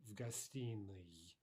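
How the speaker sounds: "В гостиной" drawn out slowly; teacher slowly models "В гостиной"; careful slow repetition. Shown as a demonstration. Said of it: "decline it as such".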